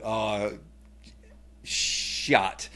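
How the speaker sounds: a hushed whisper with a falling "shot"; the kids whispering in worry; whispered dismay. Retold or imitated. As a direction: kids whispering, fearing dad's anger. Kids' dismay imitated.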